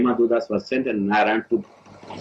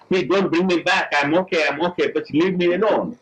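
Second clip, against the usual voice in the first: pleading patient; 5 semitones higher than usual. Retold or imitated. Dying man begs doctors.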